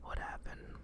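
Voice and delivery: breathy, unvoiced whisper. Real, not acted. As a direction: barely breathe the words out. Dazed whisper after the dream.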